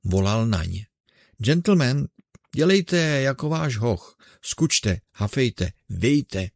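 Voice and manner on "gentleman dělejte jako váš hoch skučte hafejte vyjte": calling out to the innkeeper, muffled. Acted. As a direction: shout across the yard through your hands. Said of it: "tlumně svůj hlas ... dlaní".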